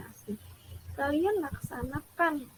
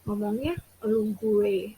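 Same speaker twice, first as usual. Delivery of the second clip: mock chummy student, voice raised; too casual with a teacher, getting louder; overfamiliar, loud; 5 dB louder than usual. Shown as a demonstration. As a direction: play the cheeky, overfamiliar pupil. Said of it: "suaranya dibesarkan".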